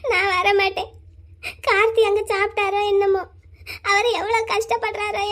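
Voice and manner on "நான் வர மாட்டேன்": tearful refusal. Acted. Crying sister refuses her mother's call to eat, sobbing. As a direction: refuse through tears.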